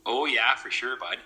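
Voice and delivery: flat Canadian accent, casual demo; lightly put-on Canadian flatness. Shown as a demonstration. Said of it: "I talk flat".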